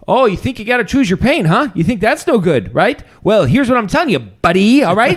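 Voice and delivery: high, loud mock rant ending in buddy; Jordan Peterson impression. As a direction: scold like a riled-up lecturer, hammed up. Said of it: "he's like".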